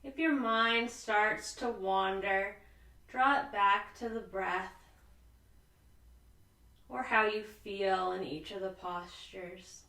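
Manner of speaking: calm, unhurried yoga teacher with long pauses; soothing relaxation-class voice, lingering on the breathing cues; guided sleep yoga. Real, not acted. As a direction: ease them gently toward sleep, phrase by phrase. Leads restful yoga breathing.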